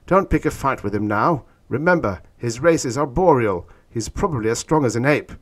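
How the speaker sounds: high-pitched urgent warning; urgent hiss. A narrator's reading. Stetson warning Orn off a fight, urgent hiss. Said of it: "hissed Stetson".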